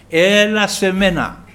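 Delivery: loud, slow summons; calling out. Retold or imitated. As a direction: call them to you, stretching the words. Preacher voices the Lord's call.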